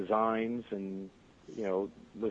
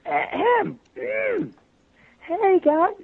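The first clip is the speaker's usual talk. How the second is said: much higher, straining to push the pitch up; strained high voice; 7 dB louder, much slower than usual. Retold or imitated. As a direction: force the voice up high like a tired teen. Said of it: "Trying desperately to push it up".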